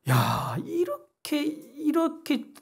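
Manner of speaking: slow, drawn-out exclamation of wonder; jumping up high on the second 이렇게; marvelling. Real, not acted. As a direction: stretch it out in amazement. Preacher marvels at forgiving God.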